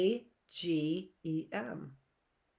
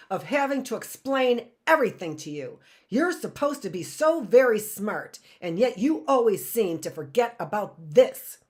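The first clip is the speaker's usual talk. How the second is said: louder threatening villain; menacing snarl; 4 dB louder than usual. Acted. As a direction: threaten with cold fury. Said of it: "Stefano snarled".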